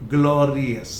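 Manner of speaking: ग्लोरियस as glo-ree-us, no y; correct pronunciation. Shown as a demonstration. Teacher derives it from glory, correct pronunciation. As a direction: end ग्लोरियस in a light us. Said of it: "ग्लोरी से क्या बना".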